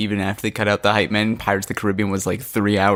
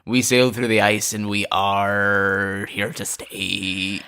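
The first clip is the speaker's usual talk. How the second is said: slow, drawn-out Canadian pirate line; 3 semitones lower, slower than usual. Pretend. Co-host voicing Canadian pirates in the ice, slow drawl.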